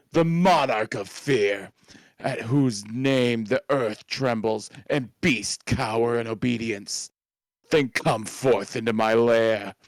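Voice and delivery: grand menacing monster prince; lightly voiced dark lord, commanding; villain monologue voice. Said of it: "I will voice act this screen".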